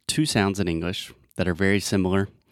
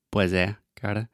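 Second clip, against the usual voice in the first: Brazilian Portuguese. Shown as a demonstration. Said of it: "very close to the eh in Portuguese".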